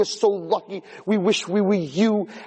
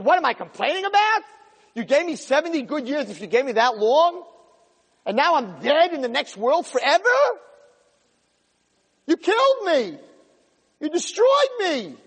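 bitter outcry; 7 semitones higher than usual. Acted. Soul answers the Yetzer Hara.

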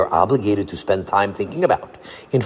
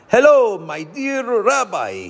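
put-on heavy Italian accent, drawn out; 11 semitones higher, slower than usual. A narrator's reading. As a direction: greet like a jolly Italian baker. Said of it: "he called in a heavy Italian accent".

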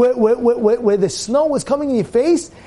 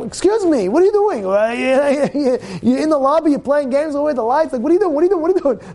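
mock screaming; 4 semitones higher than usual. Inn owner scolding the lodger in the lobby, mock screaming. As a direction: imitate an owner telling someone off, pitched up. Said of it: "is screaming at him".

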